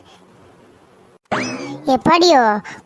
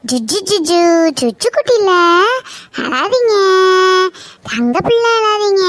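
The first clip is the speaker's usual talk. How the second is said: put-on lightly raised, cooing baby talk; soothing a baby; 2 semitones higher than usual. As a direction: coax the baby to stop crying, sing-song. Hushing a crying baby.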